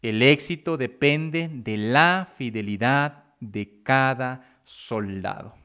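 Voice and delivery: stressed key statement, slowing on "cada soldado"; weighty emphasis, measured finish on "cada soldado"; emphatic restating. Real, not acted. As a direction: drive the point home, drawing out "cada soldado". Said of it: "y recalco".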